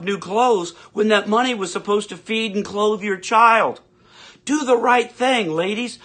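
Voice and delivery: lightly voiced preachy ad announcer lecturing ladies; mock ad voice. Ranter imagining a tampon ad, preachy announcer voice. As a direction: scold like a mock commercial. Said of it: "a tampon company ran an ad".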